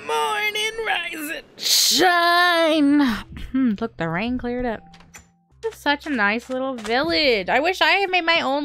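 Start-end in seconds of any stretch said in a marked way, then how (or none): 0.1-3.0 sing-song wake-up. Pretend. Waking up after sleeping.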